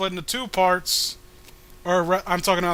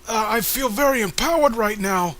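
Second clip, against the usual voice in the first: mock empowered girl; 6 semitones higher than usual. Reading a goofy empowered character.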